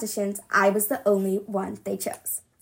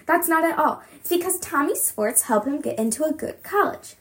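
shout; 5 semitones higher than usual. Acted. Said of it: "I shout".

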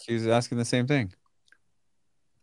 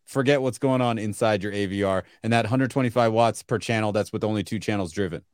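hard-sell pitch. Pretend. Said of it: "is that your sales pitch right there?".

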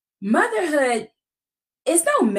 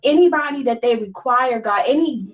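earnest preaching prayer voice. Acted. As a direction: pray it with steady conviction. Leads a prayer.

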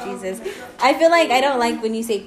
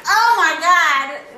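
slow stunned; 6 semitones higher, 5 dB louder, much slower than usual. Real, not acted. Reacting to friend's rant.

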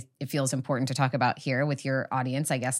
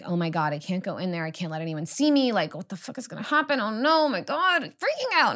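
retold panic climbing from usual voice to high squeal; freaking out; 5 semitones higher than usual. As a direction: build to a high-pitched mock freak-out. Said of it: "I was crying and freaking out".

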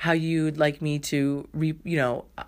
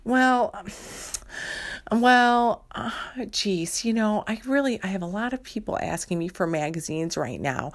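a dithering clerk fumbling for excuses; flustered librarian; 3 semitones higher than usual. Acted. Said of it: "And she's like".

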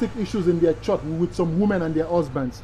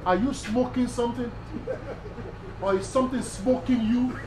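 retold retort; 3 semitones higher, 7 dB quieter than usual. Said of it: "And I said".

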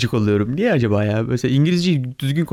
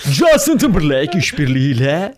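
mock DJ; 3 dB louder than usual. DJ parody, laughing.

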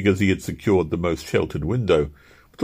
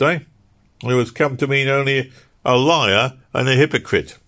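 raised, earnest argument; a pointed, pitched-up rebuke; Owen's voice; 6 semitones higher, 3 dB louder than usual. Acted. Owen rebuking Slime's selfishness, raised and earnest.

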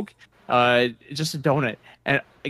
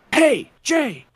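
retold call; 11 semitones higher, 4 dB louder than usual. Buddy calling from across room.

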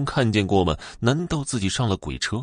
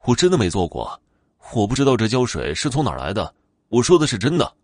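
insisting a bit louder, words hurried; loud insistence; 3 semitones higher, 3 dB louder, faster than usual. Acted. Young man insisting to the bus he is innocent, louder. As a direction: raise the voice to be believed. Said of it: "王琦大声地说道".

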